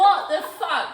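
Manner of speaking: laughing exclamation. Retold or imitated. Mock urging friend to run.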